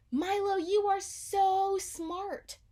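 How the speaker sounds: high, loud, slow squeal. Acted. Girl squealing with delight praising her clever dog. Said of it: "squealed Maggie".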